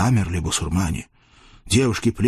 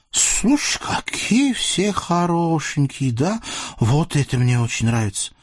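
lecherous sultan; 8 semitones higher than usual. Acted. Sultan leers at the captive women, high and gloating. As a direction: purr over the captives like a greedy sultan.

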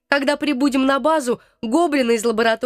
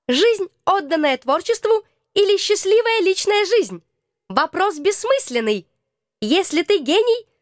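raised pitch wise speaker; higher voiced character; 5 semitones higher than usual. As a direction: speak like a calm sage.

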